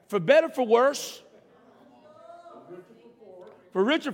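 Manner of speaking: slow, solemn vow recital; saying wedding vows. Retold or imitated. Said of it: "Went a little something like this".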